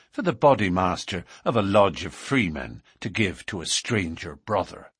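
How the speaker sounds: mildly affronted dignity; dignified. Acted. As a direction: answer with some dignity. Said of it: "answered with some dignity".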